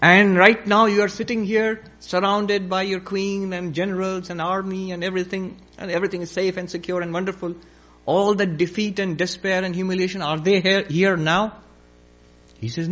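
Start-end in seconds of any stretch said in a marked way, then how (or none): 0.0-11.6 lightly declaimed, higher-pitched oratory; a hint of a wise man cross-examining; sage's challenge. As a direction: press the point on the emperor. Sage presses his challenge.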